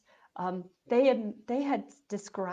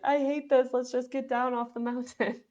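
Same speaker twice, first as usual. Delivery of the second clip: higher, louder miserable whine; whiny complaint; 5 semitones higher, 4 dB louder than usual. Retold or imitated. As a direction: wail it like a sick, fed-up husband. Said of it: "crying tears of sadness".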